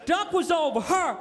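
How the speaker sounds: lightly voiced slow redneck storyteller; a touch of drawn-out redneck bragging. Redneck recounting his moose and duck hunt, lightly put-on drawl. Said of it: "You draft a redneck".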